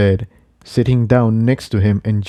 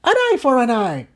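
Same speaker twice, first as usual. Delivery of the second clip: mayor's yell. Acted. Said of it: "yelled the mayor".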